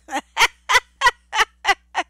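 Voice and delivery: loud, high laughing in repeated bursts; real cackling laugh, let it run; big laugh. Real, not acted. Woman laughing at the memory of a video, loud cackle.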